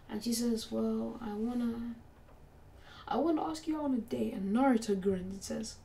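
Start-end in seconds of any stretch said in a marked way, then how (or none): 0.7-4.3 nervous ask. Acted. Girl nervously asking Naruto on a date, stammering then rushing. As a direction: blurt it out nervously after a stammer.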